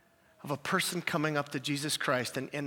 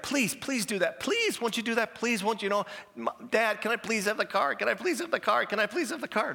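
mock pleading child, a bit higher; begging kid; 5 semitones higher than usual. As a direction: beg Dad for the car like a whiny kid. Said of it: "if I'm begging you for something".

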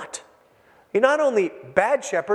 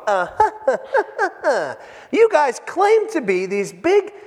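incredulous healed man; 4 semitones higher than usual. Retold or imitated. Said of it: "I can just see him going".

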